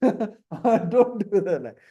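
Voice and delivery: ordinary delivery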